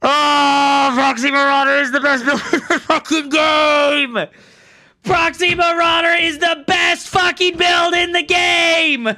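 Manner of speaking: loud, high mock praise, bitter; sarcastic shouting. Real, not acted. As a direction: yell it like a furious fake endorsement. Bitter sarcastic rant after loss.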